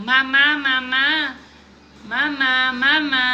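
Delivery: hammed-up child calling mama; mild mock shout. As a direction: call out repeatedly, half-hearted shout. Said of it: "sumigaw ng".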